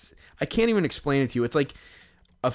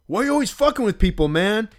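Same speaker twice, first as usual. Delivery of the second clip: angry quote; 9 semitones higher, 3 dB louder, faster than usual. Retold or imitated. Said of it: "the guy who had the cleats was like".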